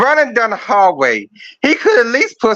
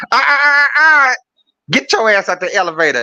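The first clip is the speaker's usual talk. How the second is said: mock rapper calling; 3 semitones higher than usual. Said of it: "he ran down the hallway and said".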